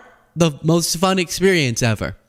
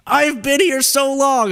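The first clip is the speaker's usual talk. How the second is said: joking mock complaint; 10 semitones higher, slower than usual. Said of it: "just kidding".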